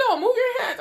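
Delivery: high, insistent mock nurse. Nurse insisting the patient move her hands, high mock insistence. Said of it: "She's like".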